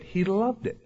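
loved lifted high in pitch; stress on loved. Shown as a demonstration. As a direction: raise loved as the contrasting word. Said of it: "Emphasize a different word".

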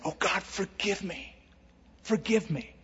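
hushed, broken plea to God; a quiet mourning prayer, pleading for forgiveness; preacher voices a sinner praying in sorrow, hushed; sorrowful prayer. Pretend.

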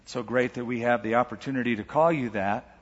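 measured public prayer with long pauses. Real, not acted. Pastor leads congregation in prayer on Father's Day, measured prayer. Let's pray.

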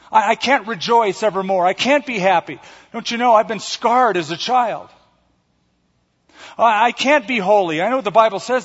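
hammed-up complainer insisting I can't; whiny excuse-maker. Preacher mocking a churchgoer's excuses, whiny and pleading. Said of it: "somebody will come along and say".

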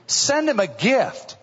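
slow, high mock disbelief; drawn-out are you crazy tone, imitating the congregation; incredulous. Listener balking at the preacher's advice, mock incredulous. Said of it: "I know you're thinking".

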